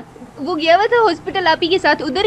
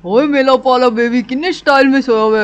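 put-on baby talk; 3 semitones lower, 3 dB louder than usual. Aunt coos lovingly over the sleeping newborn, baby talk.

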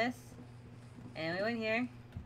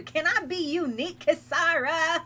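mock yell; 6 semitones higher, 6 dB louder than usual. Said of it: "I can hear you yelling it too".

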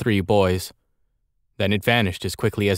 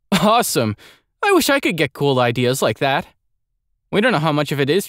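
put-on excited kid voice; 7 semitones higher than usual. Excited child character reacts.

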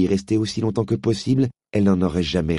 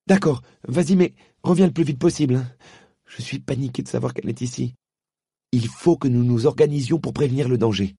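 put-on boy scared the witch is here; worried boy Diggory; 6 semitones higher than usual. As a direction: press her to hurry back. Diggory voiced by narrator.

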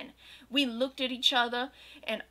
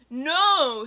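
a louder, higher no; loud mutter; 4 semitones higher, 8 dB louder than usual. Acted. Draco denying he is a prep, loud mutter. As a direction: snap it out loud. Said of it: "he muttered loudly".

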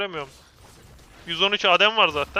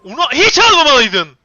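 loud, raised-pitch yell at a teammate; real angry outburst, much louder and higher; furious shout; 7 semitones higher, 16 dB louder than usual. Real, not acted. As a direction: explode in reproach. Same reproach, now exploding.

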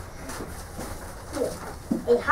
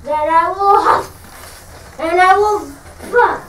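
wolf threat; 3 dB louder than usual. Acted. Wolf threatens the pig's house.

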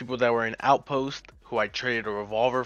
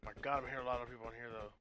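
quiet; 17 dB quieter, faster than usual. Real, not acted. Quietly sneaking in game.

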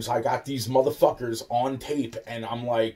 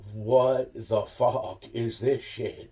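incredulous; much slower than usual. Retold or imitated. Shocked by huge electric bills.

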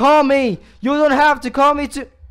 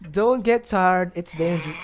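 ordinary talk

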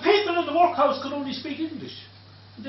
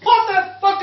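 shouted, higher and louder; a German heckler yelling up at the stage; retold shout; 8 semitones higher, 8 dB louder than usual. German heckler shouts up at the storyteller, loud and high. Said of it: "the German shouted up to me".

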